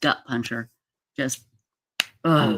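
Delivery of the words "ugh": real groan of dismay; pained ugh. Real, not acted. Host lost for words over the tragedy, pained groan. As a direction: let out a heavy "ugh". Reacting to a gut-punching loss.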